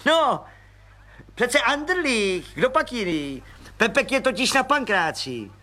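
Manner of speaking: a high, eager little man's voice; high chirpy little agent; Pištora voice. Acted. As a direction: pipe it up like a cheerful small policeman. Pištora explains.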